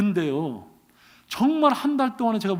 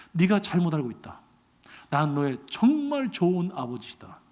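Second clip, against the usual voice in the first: God's voice; 5 semitones lower, 4 dB quieter than usual. Retold or imitated. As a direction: settle into a calm paternal register. God answers the pastor.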